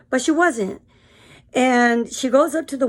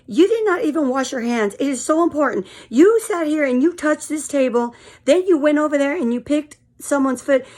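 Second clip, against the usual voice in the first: mimicking a yelling customer; 3 semitones higher than usual. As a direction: act out the girl yelling at the window. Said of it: "I'm gonna try to mimic her".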